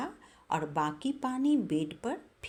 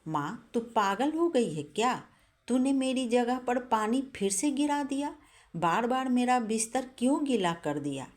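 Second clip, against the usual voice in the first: furious son; 6 semitones higher than usual. Acted. Son woken again on a wet bed, raging at his mother. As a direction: let the anger burst out at her. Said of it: "अब बेटे का गुस्सा सातवें आसमान पर पहुँच गया".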